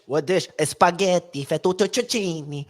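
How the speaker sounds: mock Italian, dragging out fettuccine slowly; hammed-up Italian waiter voice; fake Italian accent. Listing Italian dishes in a fake Italian accent. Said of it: "fake Italian accent".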